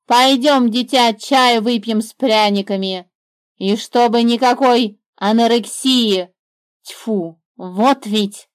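put-on the bird taking the girl for tea; bossy bird. A narrator's reading. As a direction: fuss over the child like a nanny.

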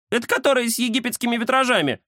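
high-pitched cat voice; Кузя butting in. A narrator's reading. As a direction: cut in brightly in a high cat voice. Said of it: "вставил Кузя". (высокий голос кота, реплика вдогонку)

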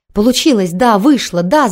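shouting the win to the night; triumphant shout. Acted. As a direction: yell it out in wild joy. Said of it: "закричала Бонни".

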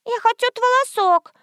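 put-on high little-girl voice; little girl asking her grandmother; child voice. A narrator's reading. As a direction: ask like a small kid.

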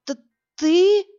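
high, stuttering in shock; stammering. A narrator's reading. Terrified woman stammering at her rescuer, high. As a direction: stumble on the first sound, startled. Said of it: "заикаясь".

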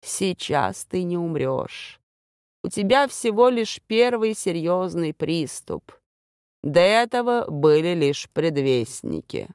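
calm and unhurried from the shadows; calm voice from darkness. Acted. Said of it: "спокойно ответил женский голос из темноты".

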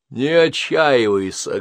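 put-on old woman consoling Henrietta. A narrator's reading. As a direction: soothe her slowly.

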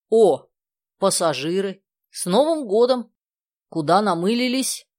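loud, high cheery greeting; a lightly voiced hearty driver; jolly driver. A narrator's reading. Driver returns and cheerfully greets the passengers.

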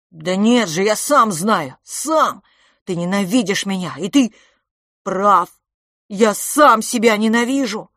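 loud high cry breaking into sobs; boy sobbing that he hates himself; tearful outburst. Acted. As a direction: shout through tears.

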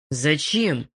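ordinary delivery

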